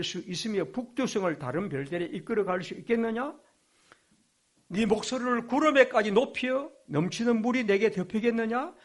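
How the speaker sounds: voicing God. Reads God's questions to Job.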